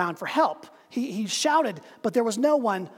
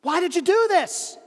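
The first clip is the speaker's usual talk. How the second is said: higher, raised voice; yell; 7 semitones higher than usual. Acted. Man on bridge yells down at the stranger. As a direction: call down demanding why. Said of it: "he yells down".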